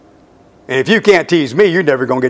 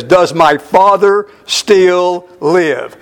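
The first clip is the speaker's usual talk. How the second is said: slow heartfelt question; 4 semitones higher, 3 dB louder, much slower than usual. Acted. Joseph's first question, heartfelt.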